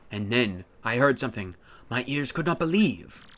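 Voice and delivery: lightly dramatic storyteller. Acted. Storyteller reveals the pirate king's treasure, mildly mock-epic narration. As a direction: tell it like a legend, pausing before the treasure.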